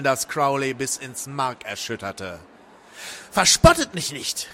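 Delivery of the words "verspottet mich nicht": high, loud rebuke; indignant cry. A narrator's reading. Crowley to the mocking being, indignant cry. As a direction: call out, stung. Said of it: "rief er dem Wesen entgegen".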